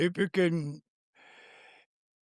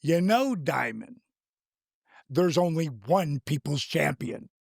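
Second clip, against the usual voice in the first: into Rock character. Retold or imitated. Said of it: "rolling into character".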